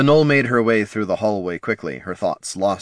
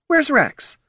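stern demand. A narrator's reading. Mother demanding.

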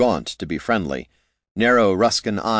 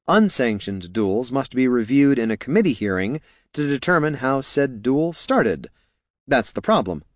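lightly voiced fussy explainer, somewhat high; Niln; 5 semitones higher than usual. Helper explaining duel hearings, high earnest explanation. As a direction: explain the rules with mild worry.

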